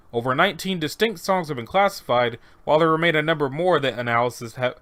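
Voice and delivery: yawning. Real, not acted. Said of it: "I don't know why I keep yawning".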